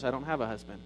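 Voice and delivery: muttering woman caught out; muttered. Retold or imitated. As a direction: mumble it, looking away. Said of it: "then she mutters".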